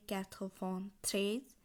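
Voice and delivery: "quatre vingt treize" slowly, word by word; French pronunciation demo. Shown as a demonstration. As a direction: set "treize" apart with a lift. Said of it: "তিরানব্বই উচ্চারণ হবে".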